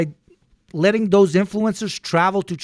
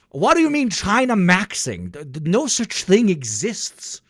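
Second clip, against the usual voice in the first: higher, stammering feigned outrage; mock indignant denial; 4 semitones higher than usual. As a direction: protest too much, hammed-up. Feigned denial of China maxing.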